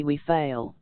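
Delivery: "we" hit hard in outraged astonishment; indignant stress on we. Shown as a demonstration. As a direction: punch "we" as if appalled. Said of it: "an accent of indignant astonishment laying the principal emphasis on the word "we".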